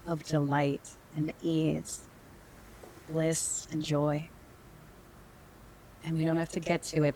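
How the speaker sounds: unhurried meditation guide with long pauses; calm, measured meditation teacher; guided meditation. Real, not acted. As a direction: lead them gently inward, leaving space between phrases.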